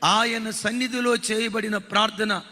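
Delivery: slow, solemn preacher's proclamation over music; slow dramatic preaching. Acted. Preacher proclaiming God's faithfulness to the congregation, slow and solemn. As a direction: draw each phrase out like a pulpit promise.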